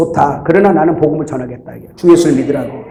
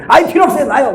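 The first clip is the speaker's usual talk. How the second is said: much higher imitated brush-off; dismissive refusal; 8 semitones higher, faster than usual. Church member refusing the preacher's invitation, high-pitched brush-off. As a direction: act out someone refusing and walking off.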